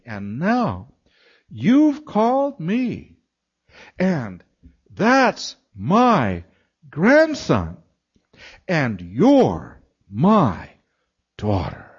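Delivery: halting, long pauses between words, overcome; imitated tearful voice. Older woman claiming caller and grandson as family, imitated tearful speech. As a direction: stretch each phrase as if struggling through tears. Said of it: "now she's crying".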